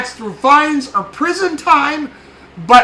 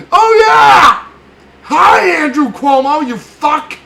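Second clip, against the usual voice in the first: snarling punk; 5 dB louder, slower than usual. Real, not acted. Shouted insult.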